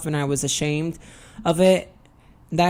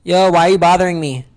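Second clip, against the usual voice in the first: mock annoyed; 7 dB louder, faster than usual. Teasing someone who calls her.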